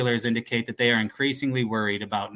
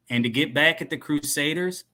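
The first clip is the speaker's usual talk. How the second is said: higher questioning dealer voice; criminal voice; 4 semitones higher than usual. Acted. Dealer prompting the cowboy, higher put-on questioning voice. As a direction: probe with a raised, put-on voice. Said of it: "he'll be like the criminal voice".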